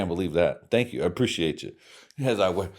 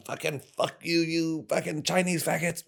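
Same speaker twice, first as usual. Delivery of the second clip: mock Asian voice; 10 semitones higher than usual. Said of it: "Say Japanese shit".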